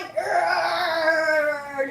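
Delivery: drawn-out effort groan; straining groan. Real, not acted. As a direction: groan as you heave something up. Effort noise moving the cat.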